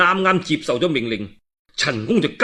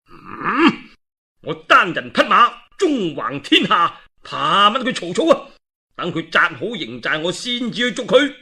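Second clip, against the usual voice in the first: a lightly voiced arrogant general, pitched higher; boastful Lü Bu; 3 semitones higher than usual. Lü Bu waving off Chen Gong's advice, proud and haughty. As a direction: brag like a warrior nobody can touch.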